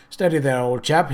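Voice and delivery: comforting. Acted. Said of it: "he said, in a comforting voice".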